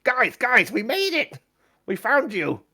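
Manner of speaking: high, loud, jubilant cry; breathless-with-joy high voice; excited greeting. Acted. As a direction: call out as you charge up to friends. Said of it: "will come charging over to where you are and goes".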